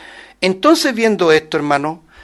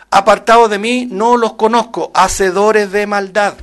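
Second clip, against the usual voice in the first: the Lord declaring; 2 semitones higher, 6 dB louder than usual. Acted. Preacher voicing the Lord's verdict on evildoers, loud and solemn. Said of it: "Y el Señor les declarará".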